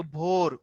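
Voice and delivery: "ভোর" with a lengthened o; long vowel. Shown as a demonstration. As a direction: hold the ও in "ভোর". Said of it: "ও লম্বা হইছে".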